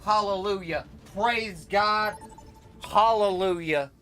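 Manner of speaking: understated mock hallelujahs; mock praise. Manipulator showing how to say it, understated mock praise. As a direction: intone it like a knowing believer. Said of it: "You just say it like this".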